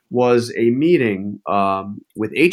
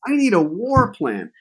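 imitating Trump; 12 semitones higher than usual. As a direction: play Trump demanding it like a spoiled boss. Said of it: "he says".

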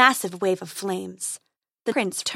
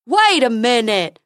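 slow, louder goofy unicorn; 9 dB louder, slower than usual. Acted. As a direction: gossip like a silly unicorn.

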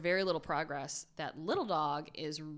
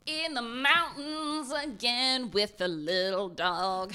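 dramatic reveal; 6 semitones higher, 7 dB louder, slower than usual. Real, not acted.

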